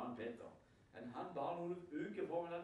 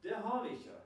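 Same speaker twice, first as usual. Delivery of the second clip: Peter proclaiming; 6 semitones higher, 5 dB louder than usual. Retold or imitated. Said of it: "Så sier Peter noe utrolig".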